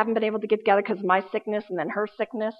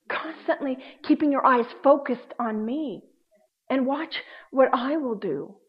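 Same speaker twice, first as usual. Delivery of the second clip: tender voice of God. Acted. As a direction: speak as God comforting a child. Voicing God speaking tenderly.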